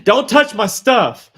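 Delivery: don't touch, said loud with a laugh; mock stern warning. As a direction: laugh while scolding, half in jest. Mock scolding about his things.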